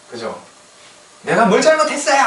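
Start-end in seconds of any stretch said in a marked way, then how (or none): 1.2-2.2 high, indignant outburst; mock protest. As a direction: throw the question out as a hammed-up complaint. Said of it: "막 이렇게 항의를 하는 거예요". (억울한 척 높게 따지는 항의)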